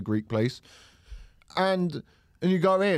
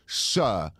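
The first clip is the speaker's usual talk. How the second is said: mock interviewer; 4 semitones lower, much slower than usual. Mock interviewer hiring the doorman.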